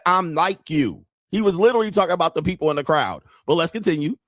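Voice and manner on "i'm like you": words stretched out in mimicry; slow quoted imitation. Streamer quotes the politician back at commenters, drawn-out imitation. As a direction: draw the quote out slowly to make the point. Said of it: "he just said".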